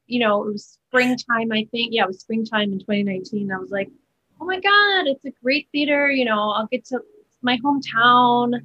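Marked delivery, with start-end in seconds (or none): 4.4-8.6 gushing, higher at the start; retold excitement. Actor recalling her reaction to landing a hometown job, excited.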